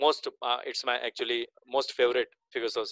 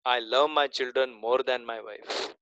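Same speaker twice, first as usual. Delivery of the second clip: slow reread; much slower than usual. Shown as a demonstration. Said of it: "Now read it again".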